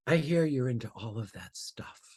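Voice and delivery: hushed, secretive whisper; quiet whisper. Retold or imitated. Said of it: "she said very quietly".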